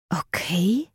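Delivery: leicht enttäuscht gepresst; enttäuscht herausgepresst. Acted. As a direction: presst es mild enttäuscht heraus. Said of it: "presste Eden enttäuscht heraus". (leicht enttäuscht, gepresst)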